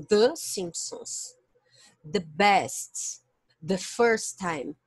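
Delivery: THE said "thuh" before a consonant; teacher's example, THE pronounced "thuh". Shown as a demonstration. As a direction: model each THE with a closed schwa. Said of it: "usamos a pronúncia the".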